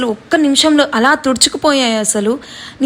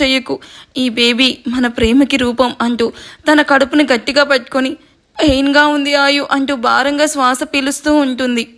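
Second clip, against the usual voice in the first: story narration. A narrator's reading. A narrator reading a sad love story to viewers, in a calm storytelling voice. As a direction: gently read story, told with feeling.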